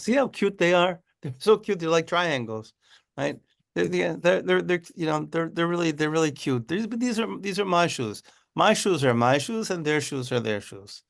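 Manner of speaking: a proud craftsman cooing over his shoes, lightly voiced; doting shoemaker.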